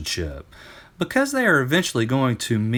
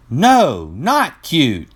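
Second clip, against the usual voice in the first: louder, higher firm correction; 7 semitones higher, 9 dB louder, much slower than usual. Acted. Euclid firmly corrects his teasing friends. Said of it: "Euclid said firmly".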